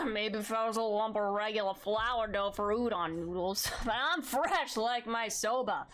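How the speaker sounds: put-on slow, slurred drunk character voice. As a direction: read it like a tipsy old master. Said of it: "Do you want me to do the drunk voice?".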